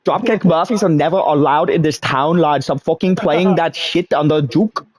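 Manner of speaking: hammed-up grumpy Irishman; Irish accent. Friends joking, a grumpy Irish publican banning a band. Irish pub regular bit.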